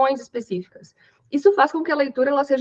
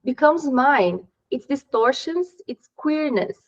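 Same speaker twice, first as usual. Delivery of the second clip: slow reading aloud; much slower than usual. Shown as a demonstration. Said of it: "ele continua esse texto falando assim".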